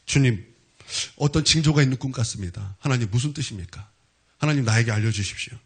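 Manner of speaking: low, subdued prayer to God; retold prayer. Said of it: "성령님께 기도했어요". (낮은 목소리로 재연하는 기도)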